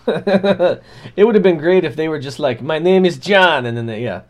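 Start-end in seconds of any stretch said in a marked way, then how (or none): 2.6-3.7 slow, loud hammed-up imitation; half-laughing copy; mock parroting. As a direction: parrot his words back to him. Tribe parroting him.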